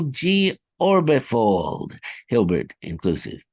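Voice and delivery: smooth, confident science jargon; clean retake. Acted. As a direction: read the jargon fluently. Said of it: "Let me try again".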